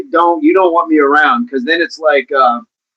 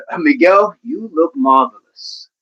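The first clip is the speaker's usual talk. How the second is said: Billy Crystal. Acted. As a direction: stretch out a half-hearted celebrity impression. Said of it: "can't even do the old Billy Crystal".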